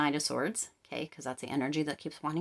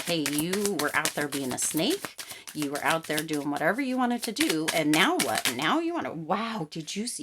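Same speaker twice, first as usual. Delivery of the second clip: accusing confrontation; 4 dB louder than usual. Retold or imitated. Reader voicing the client scolding an ex who strayed, a loud heated confrontation. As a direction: call them out like you've had enough. Confronting the ex about being a snake.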